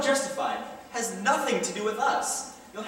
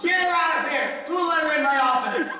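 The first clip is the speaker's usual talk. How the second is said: angry order; 4 semitones higher, 3 dB louder than usual. Acted. Boss orders her out.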